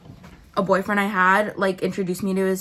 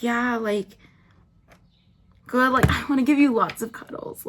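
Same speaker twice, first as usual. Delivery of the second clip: mocking baby talk; 4 semitones higher than usual. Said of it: "it's so easy to fuck with someone".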